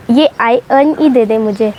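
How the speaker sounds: ordinary talk, nothing marked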